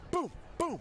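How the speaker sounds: high, punchy boom boom; excited boom. Retold or imitated. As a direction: pop each boom excitedly. Mimicking quick touchdowns.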